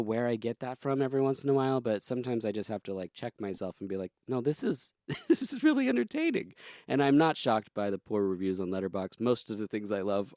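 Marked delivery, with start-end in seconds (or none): 4.3-6.5 high, laughing admission that it's fun; laughing self-correction. Retold or imitated. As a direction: break into a laugh mid-sentence. Checking myself, laughing at own snobbery.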